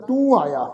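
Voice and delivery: ਤੂੰ said with a nasal u. Shown as a demonstration. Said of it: "ਟਿੱਪੀ ਦੀ ਮਾਤਰਾ ਲਗਾ ਕੇ".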